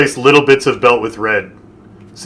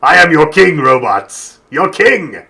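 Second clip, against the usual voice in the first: commanding king; slower than usual. Pretend. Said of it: "put on a crown when I give orders".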